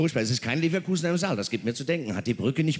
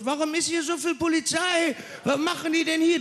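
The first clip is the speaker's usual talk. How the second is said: much higher pitched squeaky complaint, with a laugh; mock crowd yell. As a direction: whine about too many police. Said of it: "Was haben sie letztes Jahr gebrüllt?".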